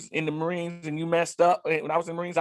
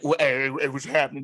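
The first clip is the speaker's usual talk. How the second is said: lower-pitched mock greeting; deepened voice; 5 semitones lower than usual. Imitating men who came back built different, deepened voice. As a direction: put on a deeper voice. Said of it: "Voice got deeper".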